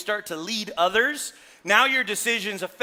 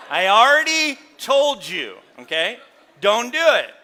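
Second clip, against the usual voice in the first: firm warning; 4 semitones higher, 10 dB louder than usual. Real, not acted. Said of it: "warning the congregation".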